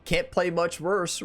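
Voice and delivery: slow, laughing self-talk; laughing self-quote. Retold or imitated. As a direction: quote yourself through a laugh. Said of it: "I told myself".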